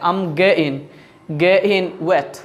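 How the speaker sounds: "getting" broken into "ge-in"; British pronunciation. Shown as a demonstration. Teacher repeating the British way, "getting" as "ge-in". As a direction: drop the middle t and final g of "getting". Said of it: "এরকম কিন্তু বলা".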